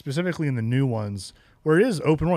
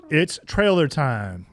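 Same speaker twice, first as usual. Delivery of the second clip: slow, louder announcer call; 3 semitones higher, 6 dB louder, slower than usual. Acted. Host announcing the trailer segment slowly. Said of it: "should do that, like, morphin' time for a segment".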